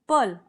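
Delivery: पल alone as pul, with an uh vowel; syllable demo. Shown as a demonstration. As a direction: isolate पल as the second beat. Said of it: "अ यहाँ sound कर रहा है". (पल को अलग सिलेबल की तरह बोलें)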